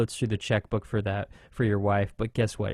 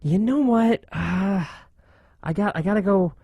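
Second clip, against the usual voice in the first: higher, louder dismissive voice; imitating Brian France; 6 semitones higher, 5 dB louder than usual. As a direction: brush it off, half-shouting. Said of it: "where he's just thinking".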